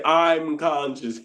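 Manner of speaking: slow proud ego voice; a hint of a pompous royal voice; booming warrior king. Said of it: "I just gotta put the ego voice in that".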